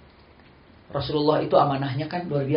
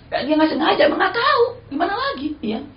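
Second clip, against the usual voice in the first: laughing resignation; 5 dB louder than usual. Real, not acted.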